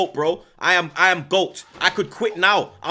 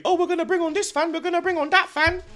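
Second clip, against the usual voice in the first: much higher, sing-song mock TV host voice; mock presenter. Streamer mocking Sky Sports inviting fans on, high mock voice. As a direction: parody the pundits sweetly.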